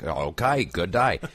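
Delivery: brief Aussie greeting, lightly put on; Australian accent. Host agreeing to do Australian, in an Aussie accent. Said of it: "We should do Australian".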